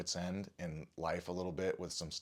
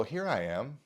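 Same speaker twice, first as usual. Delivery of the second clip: lightly playful, higher-pitched imitation; 6 semitones higher, 3 dB louder than usual. Imitating a young woman's voice heard from the shower, playful. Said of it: "it was kind of playful".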